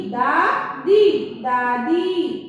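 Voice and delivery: first दादी drawn out slowly, second दादी said quickly; slow then normal. Shown as a demonstration. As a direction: stretch दादी syllable by syllable, then say it whole. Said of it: "दा पे बड़ी की मात्रा दी".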